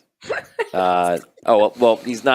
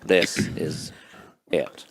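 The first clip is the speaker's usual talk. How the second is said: Morgan Freeman voice; 3 dB louder, much slower than usual. Acted. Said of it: "This is my real voice".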